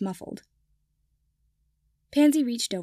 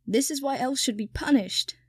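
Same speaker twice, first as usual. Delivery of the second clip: wailed; 3 semitones higher than usual. Acted. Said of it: "Kipper wailed".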